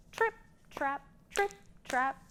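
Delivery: light, high trip trap rhythm; playful hoof-step chant; hoof sounds chant. Shown as a demonstration. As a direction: tap out the hoof beats softly. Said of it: "making some noises with their big hooves".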